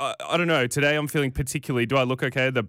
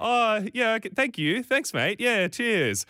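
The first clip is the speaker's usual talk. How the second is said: high, overly polite thanks; forced thanks; 9 semitones higher, slower than usual. Retold or imitated. Finally accepting the coffee from the driver, chirpy and high. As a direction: give in with chirpy thanks, pitched up. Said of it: "I was like".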